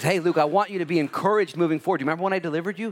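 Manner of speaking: a hint of the Lord asking gently; voice of Jesus. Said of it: "And he says".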